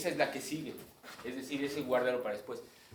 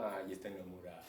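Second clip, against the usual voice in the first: softer, fond "ay, está enamorado"; tender aww; 5 semitones lower, 9 dB quieter than usual. Retold or imitated. Teacher voicing the audience's fond aww, softly. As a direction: coo like someone touched. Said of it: "es como tierno".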